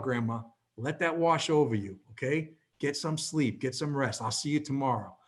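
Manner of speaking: retold tender, hushed goodnight; gently reassuring. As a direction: softly soothe grandma toward sleep. Soothing his dying grandmother to sleep.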